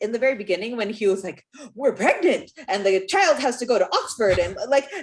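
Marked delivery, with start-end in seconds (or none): 1.7-4.4 badly acted delivery, raised, high and loud. Mocking a voice actor's opening line: imitating bad Clark delivery. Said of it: "that whole voice part of Clark was so bad".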